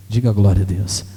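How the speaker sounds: low, booming call for a response; deep-pitched, forceful pulpit call; loud call to congregation. Real, not acted. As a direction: belt out a congregational prompt. Preacher calls congregation to respond.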